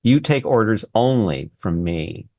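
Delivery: gravely imitating a stern mentor; measured orders with pauses between phrases; very serious. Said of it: "he says to me very seriously".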